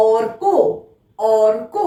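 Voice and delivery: careful teacher's অর্ক, r before k; model pronunciation. Shown as a demonstration. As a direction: say অর্ক with র sounded just before ক. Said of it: "তাহলে কি হলো".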